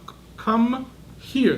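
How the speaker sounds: slow "come here" pushed through clenched teeth; a hint of a stressed mother, teeth clenched; through closed teeth. Mother upset with her son, through gritted teeth. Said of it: "talk with her teeth closed".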